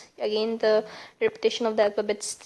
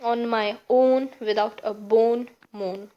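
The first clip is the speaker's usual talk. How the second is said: slow phrases with weight on "own" and "bone"; stressed word endings; 3 dB louder, slower than usual. Shown as a demonstration. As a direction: slowly lean on "own", "bone" and "moan". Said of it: "The stress by, by the end of each word".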